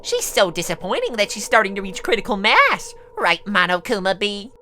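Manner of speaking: soft, hushed tutting; mock-dismayed aside. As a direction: confer quietly, as if behind someone's back. Villain confers aside with her dolls.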